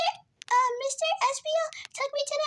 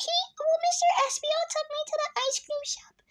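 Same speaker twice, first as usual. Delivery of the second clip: voice crack; 2 semitones higher than usual. Real, not acted. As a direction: voice cracking mid-line. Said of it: "Voice crack".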